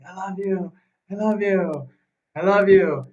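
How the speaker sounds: projecting love. Retold or imitated. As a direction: project love with each repetition. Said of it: "but he's projecting".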